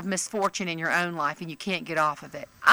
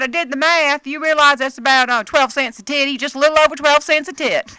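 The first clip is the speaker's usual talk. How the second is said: higher, louder, proud of her math; proud blunt lady; 8 semitones higher, 8 dB louder than usual. Retold or imitated. Fan proudly explaining the math to the author, higher and louder. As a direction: announce the sum like a discovery. Voicing fan doing arithmetic.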